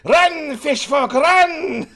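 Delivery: high, loud yell of alarm; panicked shout. Acted. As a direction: scream at them to flee. GM yells warning to fish folk.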